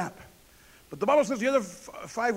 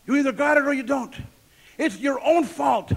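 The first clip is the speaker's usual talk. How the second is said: preaching emphasis; 3 semitones higher, 4 dB louder than usual. Acted. Preacher hammers the point.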